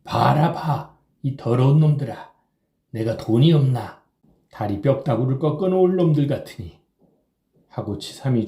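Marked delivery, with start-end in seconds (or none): 0.0-6.8 put-on louder, higher drunken rant; growing anger. A narrator's reading. Drunk Kim ranting at the serving boys, louder angry rant. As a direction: lash out, ashamed and angry. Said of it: "더욱 성을 내며".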